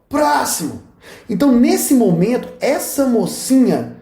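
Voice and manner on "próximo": higher-pitched imitation of a teller calling; mock shout. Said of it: "esse aqui também faz a mesma coisa". (chamado encenado, em tom agudo)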